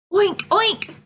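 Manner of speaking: high, playful oinks; high storybook pig sound. A narrator's reading. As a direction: imitate a pig for small children. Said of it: "This mommy pig wallows".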